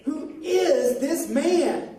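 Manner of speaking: slow, drawn-out question of amazement; amazed disciples. Acted. Teacher cues amazed disciples to say it together, slow wonder. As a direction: ask in wonder, word by word.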